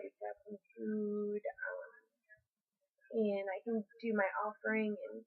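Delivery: burping and hiccuping while talking. Real, not acted. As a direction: talk through hiccups after eating. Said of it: "I'm, like, burping and hiccuping".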